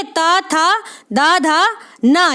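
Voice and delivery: त थ द ध न listed one by one with small pauses; each letter set apart clearly; reciting letters. Shown as a demonstration. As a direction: count off the letters for the class. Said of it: "ध्यान रखें".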